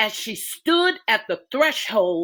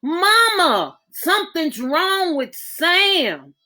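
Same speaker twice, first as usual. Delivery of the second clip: high crying plea, slowed; frightened girl waking her mother; tearful panic; 7 semitones higher, 4 dB louder, slower than usual. Acted. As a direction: fight back tears to get it out. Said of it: "Camille screamed".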